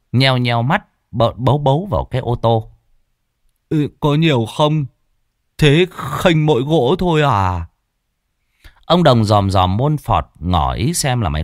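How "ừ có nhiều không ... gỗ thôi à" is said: wary Lâm, higher. A narrator's reading.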